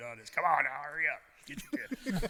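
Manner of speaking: put-on yelling, high-pitched with swooping pitch. Retelling being hurried while hooking tire chains: imitating someone yelling. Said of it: "he's yelling at me".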